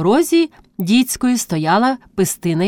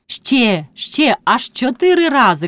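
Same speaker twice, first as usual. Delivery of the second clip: excited call, pitch climbing higher; gleeful cry; 4 semitones higher than usual. A narrator's reading. Priest's wife counts blows to come in a card game, crying out. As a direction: cry it out eagerly, in a raised voice. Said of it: "крикнула вона".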